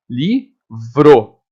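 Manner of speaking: Livro said carefully, li-vro; model word. Shown as a demonstration. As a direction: show the word Livro clearly. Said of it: "A mesma coisa na palavra livro".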